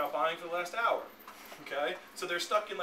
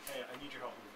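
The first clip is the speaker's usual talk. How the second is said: sincere need; 6 semitones lower, 10 dB quieter, faster than usual. Retold or imitated. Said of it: "They want to feel needed".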